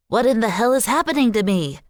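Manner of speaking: tiny dog frustrated at his own squeaky voice; frustrated helium squeak. A narrator's reading. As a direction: squeal it in a panicked chipmunk voice. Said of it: "His voice was even more ridiculous the more frustrated".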